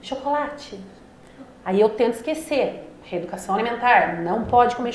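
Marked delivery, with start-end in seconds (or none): 0.0-0.8 soft, higher murmur of temptation; tiny inner voice. Acted. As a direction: say it very quietly, like a craving calling. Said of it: "Uma voz fala bem baixinho". (vozinha interior bem baixinha)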